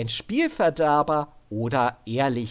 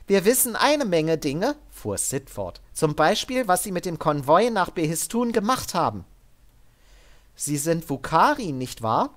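higher, firm but controlled order; armored soldier woman; 6 semitones higher, 3 dB louder than usual. Acted. Sid ordering Devin up at gunpoint, higher and firm. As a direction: keep him steady with a calm threat. Sid's voice.

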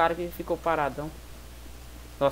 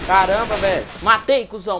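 panicking gamer; 8 dB louder than usual. Real, not acted. Excited gamer kill outburst.

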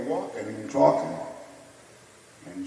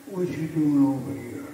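teasing Ali voice, pitched up; Ali impression; 6 semitones higher, 4 dB louder than usual. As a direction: talk down to him like the champ.

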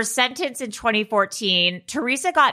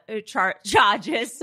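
put-on New Jersey accent; slower than usual. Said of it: "In your New Jersey accent".

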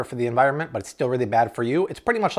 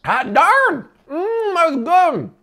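much higher and louder, slow savoring; overjoyed tasting; 6 dB louder, much slower than usual. Real, not acted. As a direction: savor it with a big happy cry.

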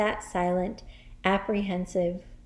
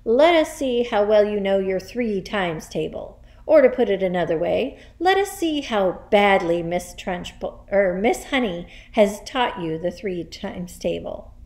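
forceful, raised headmistress voice; booming; 4 dB louder than usual. Acted. Headmistress challenges class on times tables, booming. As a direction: keep booming at the whole class. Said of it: "boomed the Trunchbull".

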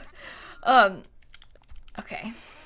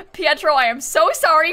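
louder, higher mock pleading sorry; pleading apology; 4 semitones higher, 5 dB louder than usual. Streamer begging a lost villager, louder mock pleading. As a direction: beg him to forgive you, half laughing. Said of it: "Have you tried apologizing to Pietro?".

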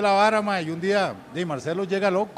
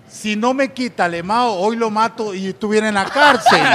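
worked-up imitation; 3 semitones higher, 8 dB louder than usual. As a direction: declaim dramatically to a small child. Acted ranting to little girl. (imitando dramatismo, lento y fuerte)

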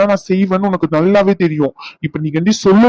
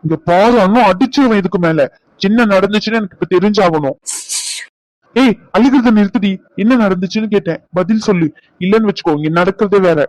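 raised angry voice at his wife; angry shouting; 2 semitones higher than usual. Acted. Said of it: "Raghu, கத்துறீங்க".

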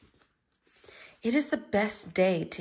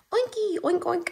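excited Piggy voice; 9 semitones higher than usual. Acted. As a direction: squeal the oinks up high with joy. Piggy greets pig friends.

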